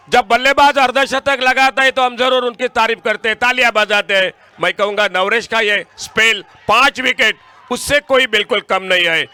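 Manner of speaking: loud, high-pitched praise; excited cricket commentary. Real, not acted. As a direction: keep the crowd roaring for the bowler. Praising the bowler's five wickets. (जोशीली commentary)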